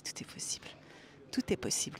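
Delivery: hushed, soft reassurance; whispered encouragement. Real, not acted. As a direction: whisper the promise gently.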